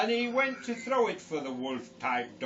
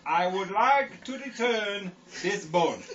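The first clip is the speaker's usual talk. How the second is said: lightly voiced Yorkshire Indian customer; Yorkshire Indian accent. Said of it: "Yorkshire Indian".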